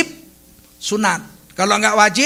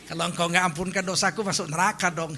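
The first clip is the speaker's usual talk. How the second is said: soft, casual plea ending in giggles; mock laughing prayer; 2 semitones lower, 7 dB quieter, faster than usual. Preacher parodies person joking with God about hell, mock laughing prayer. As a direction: toss off the prayer, then titter. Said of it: "yang berdoa ketawa".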